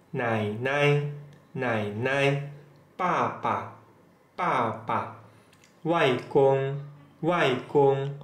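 "Yeye" and "nainai" rise, "Papa" and "Mama" fall; repetition drill. Shown as a demonstration. Teacher leading learners in repetition, careful Mandarin from "Yeye" to "mama". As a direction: model each word from "Yeye" to "mama" twice, with pauses. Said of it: "Coba diulang".

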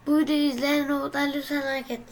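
fast loud plea. Shown as a demonstration. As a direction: rattle it off fast. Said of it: "Bonus üç görev".

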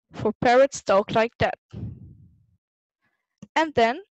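put-on lively storybook read for kids; reading to children. A narrator's reading. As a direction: read it like a bedtime picture book. Reading picture book aloud.

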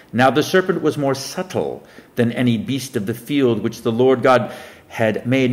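measured Bible reading voice; solemn King James recitation; scripture reading. Acted. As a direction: read the verse like a preacher at the lectern. Reads scripture aloud.

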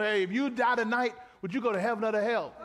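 hammed-up street evangelist; pushy evangelist. Preacher mocking a door-knocker asking about heaven, pushy.

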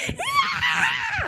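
whooping high cheer with a laugh; mom's cheer. Retold or imitated. Mom cheering at her kid in front of the team, whooping high yell. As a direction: cheer like a proud embarrassing mom.

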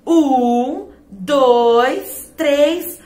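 loud count-off; counting to pull. Acted. Tico leads the friends pulling the carrot, loud. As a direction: count them in and heave.

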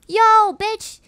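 loud, high, drawn-out indignation; mock-outraged confrontation. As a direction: call her out in playful outrage. Confronts the game's wife character.

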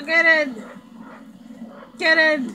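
loud urgent call; shouting. Acted. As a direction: yell at them to get in. Urging someone into vehicle.

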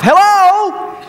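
high, loud incredulous call; are you even listening; mock exasperated hello. Shown as a demonstration. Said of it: "I just read that with that kind of inflection".

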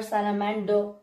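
British "salamander" ending in "doh", R silent; British accent. Shown as a demonstration. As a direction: drop the final R of "salamander", British-style. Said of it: "so this you can be".

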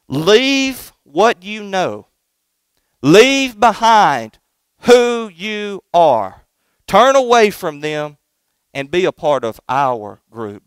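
enticing sinners. Acted. Sinners luring the young son away, slow tempting call. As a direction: coax the boy away like a tempting gang. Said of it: "Do you hear what they're saying?".

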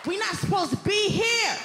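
a loud high rallying cry to the crowd; shouting to the crowd. Real, not acted. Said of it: "rallying the crowd".

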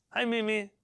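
lightly imitating the bird; parrot voice. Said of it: "I have a bird at home".

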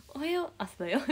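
high sing-song wake-up call; playful high alarm voice; mascot morning call. Pretend. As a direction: chirp it as a cartoon alarm clock. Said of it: "ゆなのそのモーニングコール欲しい".

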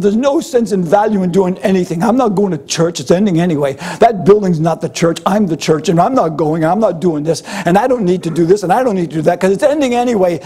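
mock the churchgoer who can't be bothered; sulky excuses. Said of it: "approach things in the sense of".

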